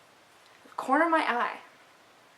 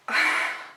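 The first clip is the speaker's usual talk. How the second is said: gasp. Retold or imitated. After telling of screaming, wordless breath.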